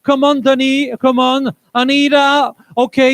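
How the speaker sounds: usual speaking voice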